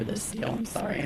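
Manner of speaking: losing her voice mid-sentence; voice cracking. Real, not acted. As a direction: voice cracking up high. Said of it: "I'm losing my voice".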